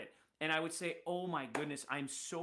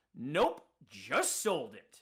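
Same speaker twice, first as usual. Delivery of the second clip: acted, bright, loud, gleeful sing-song; 3 semitones lower, 6 dB louder than usual. Retelling how the guy answered a customer who wanted to buy, imitating his glee. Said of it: "with glee in the tone of his voice".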